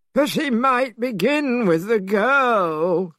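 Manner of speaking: high, slow fretful pig voice; Pigsy crying out. A narrator's reading. Pigsy worrying to the girl's father, high and fretful. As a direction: fret it out in a high squeal. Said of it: "cried Pigsy".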